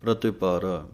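ਪ੍ਰਤਿਪਾਰਾ with a short i on ta; ਪ੍ਰਤਿਪਾਰਾ, ti clearly voiced; Gurbani pronunciation. Shown as a demonstration. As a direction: say ਪ੍ਰਤਿਪਾਰਾ as pra-ti-pa-ra. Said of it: "ਤੱਤੇ ਸਿਹਾਰੀ ਦੀ ਆਵਾਜ਼ ਦੇਣੀ ਹੈ".

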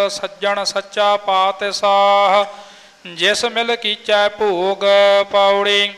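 steady chanted reading of scripture; scripture recitation. Real, not acted. Student reciting Gurbani path to the teacher, steady chant. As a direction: recite the verses in an even chant.

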